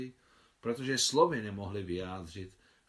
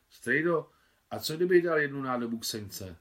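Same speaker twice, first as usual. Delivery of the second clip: lightly voiced boy, raised and louder; a small boy begging his uncle; a hint of a boy asking the soldier for a favour; eager boy; 5 semitones higher, 7 dB louder than usual.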